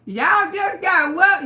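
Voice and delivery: slow, loud surprised question. Retold or imitated. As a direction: ask it in disbelief. Friends' surprised reaction quoted.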